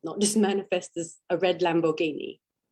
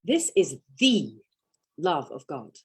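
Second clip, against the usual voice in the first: weight on "the" and pause; stress on THE; 3 semitones lower than usual. Shown as a demonstration. Teacher showing emphasis: "the" stressed. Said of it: "as we change the emphasis".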